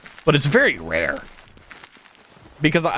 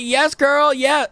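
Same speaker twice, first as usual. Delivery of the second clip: high-pitched, camp affirmation; exaggerated gay voice; 10 semitones higher, much slower than usual. Teen putting off an annoying classmate, exaggerated gay voice. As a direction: ham up a campy gay voice, pitched way up. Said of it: "talk as gay as possible".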